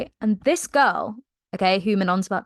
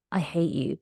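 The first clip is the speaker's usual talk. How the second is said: mock grumble; 4 semitones lower, 7 dB quieter than usual. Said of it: "she's like".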